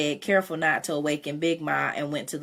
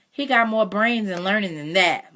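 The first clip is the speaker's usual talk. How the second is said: louder, higher, mildly snappish; a sharp, raised-voice retort; snapped retort; 5 semitones higher, 6 dB louder than usual. A narrator's reading. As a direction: snap back in Mama's defence of the boy. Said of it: "Mama snapped".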